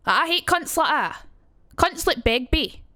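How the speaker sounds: harsher, thicker Edinburgh Scots; Edinburgh accent. Shown as a demonstration. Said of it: "then you've got the Edinburgh accent".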